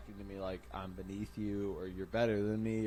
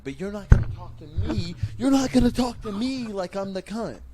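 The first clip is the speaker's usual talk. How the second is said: loud rant; 9 semitones higher, 6 dB louder than usual. Real, not acted. Ranting about being disrespected.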